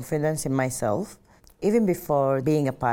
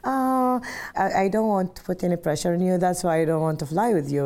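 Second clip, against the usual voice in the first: quoted mom, much higher, a fast anxious plea; imitating worried mom; 6 semitones higher, 3 dB louder than usual. Mom tells daughter she's afraid to fly with her, anxious. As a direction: squeak it out like a nervous mother. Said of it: "like, kind of afraid".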